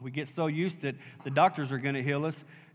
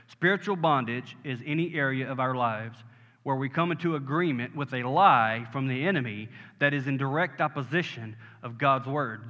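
deliberate, lower-pitched definition; slower repeat; 3 semitones lower than usual. Shown as a demonstration. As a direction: say it more slowly so it sinks in. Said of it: "Let me say it again slower".

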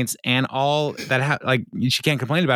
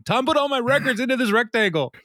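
imitating Ron. Ron voiced in retold scene.

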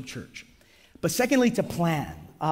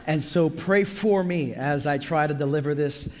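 lost voice, rough and strained; hoarse voice. Real, not acted. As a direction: speak through a worn-out, hoarse voice. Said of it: "as you can hear already, I've lost my voice".

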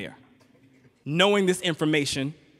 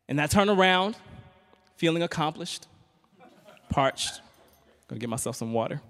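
ordinary talk

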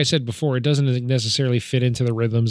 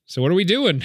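raised mock character voice; quoting a character; 7 semitones higher than usual. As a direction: lift into the character's line. Retelling movie scene quotes.

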